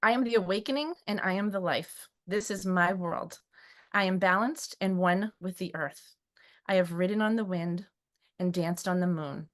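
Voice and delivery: poem recital. Real, not acted. Guest reads her own poem to the host, measured and moved. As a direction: read it like a sacred vow. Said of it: "I'm gonna try not to cry".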